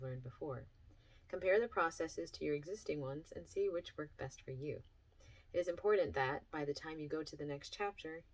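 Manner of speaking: measured, clearly phrased workbook reading; reading aloud. Acted. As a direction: read it to listeners like an instructional chapter. Reads workbook chapter aloud.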